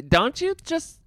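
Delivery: put-on high whiny Valley Girl; Valley Girl whine. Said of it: "the face that you're making while you're doing this".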